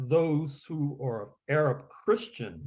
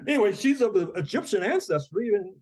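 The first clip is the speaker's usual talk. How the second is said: laughing; 9 semitones higher, 4 dB louder than usual. Real, not acted. Laughing at own joke.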